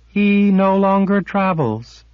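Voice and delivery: high, otherworldly lilt; a silver being's strange calm; high eerie sliff. A narrator's reading. Sliff to Kara, eerie and high.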